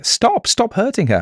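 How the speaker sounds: very high-pitched urgent cry; clear soprano. A narrator's reading. Kelly pleads with the strangler, clear soprano. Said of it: "he heard a clear soprano".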